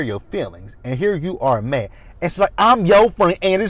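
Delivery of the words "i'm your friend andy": high, loud mocking of her accent; Karen's accent. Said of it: "that accent that she has".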